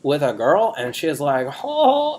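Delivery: bro storyteller with high mimicked quotes; boastful dude-bro character; Chaz. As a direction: swoop way up for the quoted chat. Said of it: "we're doing characters this week".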